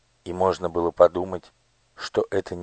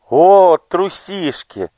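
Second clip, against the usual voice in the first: laughing teasing; 13 semitones higher, 9 dB louder, much slower than usual. Acted. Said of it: "рассмеялась всадница".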